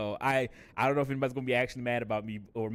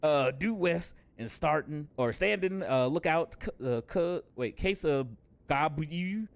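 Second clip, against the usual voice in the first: gruff pirate-ish NPC; 3 semitones higher than usual. Acted. Voices NPC dialogue in accent.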